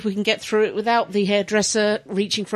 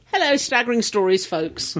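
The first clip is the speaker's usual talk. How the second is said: attempted Colorado accent. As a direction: have a rough go at an American Colorado accent. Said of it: "What's a Colorado accent?".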